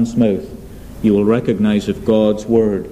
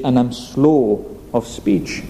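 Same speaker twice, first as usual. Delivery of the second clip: slow speech; slower than usual. Shown as a demonstration. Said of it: "I've got a heavy tongue".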